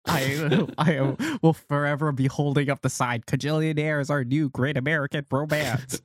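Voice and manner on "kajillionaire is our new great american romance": put-on old Hollywood transatlantic accent; grand old Hollywood transatlantic voice. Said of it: "that's your transatlantic accent?".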